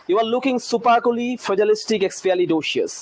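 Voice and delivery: very slow, "supercally fragilistic expialidocious" drawn out; slow demonstration sentence; slow example sentence. Shown as a demonstration. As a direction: model the praise line slowly. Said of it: "এই টাইপের".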